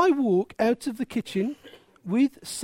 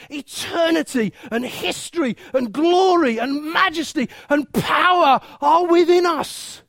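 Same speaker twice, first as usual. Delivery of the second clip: loud, higher-pitched preaching, punching key words; impassioned preaching; 4 semitones higher, 4 dB louder than usual. Real, not acted. Preacher urging the congregation to burst with living water, impassioned. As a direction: build to full-force pulpit exhortation. Preacher rises to full force.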